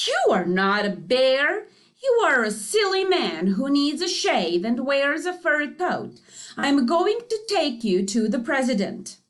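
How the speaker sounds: loud, angry scolding; yelling in a rage. Acted. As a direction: rage at the bear. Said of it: "yelled in a rage".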